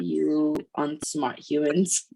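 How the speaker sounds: slow, imitated sigh of exasperation; exasperated sigh. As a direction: sigh it out slowly, mock-weary. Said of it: "he just sighs and walks away".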